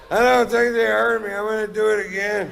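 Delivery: high, loud acted quote; retold eager resolve. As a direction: act out undeterred drunken determination. Retold drunken resolve after being unheard.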